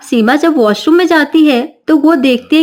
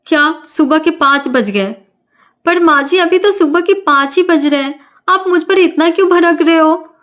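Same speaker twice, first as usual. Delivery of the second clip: put-on higher, indignant young bride; protesting young bride; 5 semitones higher than usual. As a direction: complain that she is being shouted at. Navya protests.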